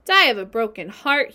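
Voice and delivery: loud mock of the pig's words; a rat mimicking Wilbur's words with scorn; a rat mocking Wilbur's broken heart. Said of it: "he mimicked".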